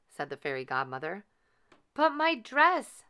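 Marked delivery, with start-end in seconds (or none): 1.9-3.0 worried Cinderella. A narrator's reading. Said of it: "said Cinderella".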